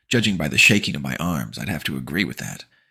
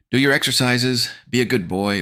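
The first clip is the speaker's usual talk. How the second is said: sing-song mom; 8 semitones higher, 6 dB louder than usual. Acted. Mom ordering.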